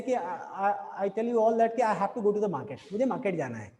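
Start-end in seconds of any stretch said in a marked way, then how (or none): 1.8-2.9 slow demo sentence with a falling end. Shown as a demonstration. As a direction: say it slowly and let it fall. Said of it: "let's say".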